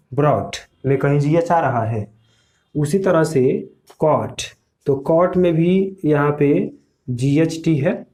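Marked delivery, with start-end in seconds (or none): 4.0-4.4 कॉट going from the vowel straight to t; silent GH. Shown as a demonstration. Teacher demonstrates caught, gh silent. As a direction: say कॉट with no g or h sound. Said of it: "कॉट हम जब pronunciation कर रहे हैं".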